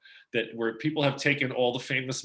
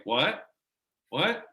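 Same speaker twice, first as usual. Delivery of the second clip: high, louder disbelieving What; shocked double take, pitched up; surprised; 6 semitones higher, 5 dB louder than usual. Retold or imitated. Friend reacting in disbelief, surprised high What. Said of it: "And he's like".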